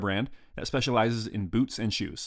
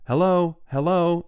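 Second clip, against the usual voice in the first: shouted much higher and louder down the line; yelling hello; 9 semitones higher, 6 dB louder, slower than usual. Retold or imitated. Telegraph operator hailing down the line, loud calling. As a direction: call out to a distant station. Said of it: "pick up the telephone and I yell".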